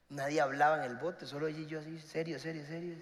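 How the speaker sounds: quiet stiff recounting of the silence; hushed. Retold or imitated. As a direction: drop the voice to a near hush. Awkward silence in boat.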